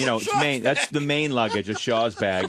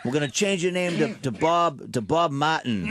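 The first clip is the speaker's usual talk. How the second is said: higher-pitched imitation of a casino heavy; basement guy impression; 5 semitones higher than usual. Casino man announcing a name change, imitated shady caller. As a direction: play the shady man on the phone. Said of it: "like a guy you would think would be calling from the basement".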